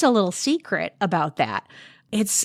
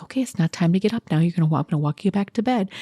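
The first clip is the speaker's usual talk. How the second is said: put-on calm soothing to a child; faster than usual. Shown as a demonstration. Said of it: "You're supposed to be like".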